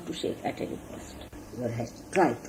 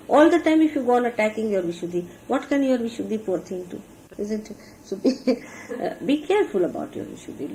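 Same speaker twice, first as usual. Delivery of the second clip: normal talking voice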